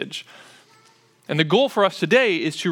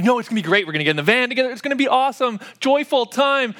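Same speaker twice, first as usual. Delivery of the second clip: a touch higher, mildly upbeat persuading; dad's pitch; 6 semitones higher, faster than usual. Retold or imitated. Dad selling the van trip to his kids, mildly upbeat. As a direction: sell the trip cheerfully. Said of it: "And I'm like".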